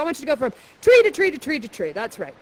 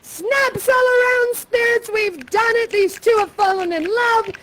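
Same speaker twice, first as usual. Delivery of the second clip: excited; 7 semitones higher than usual. Acted. Excited Prospero to spirits.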